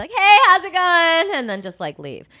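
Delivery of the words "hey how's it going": put-on, shrill, very high, very loud fake voice. Speaker showing how they greet people they run into, too-loud fake greeting. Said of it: "talk like a little too many decibels too high".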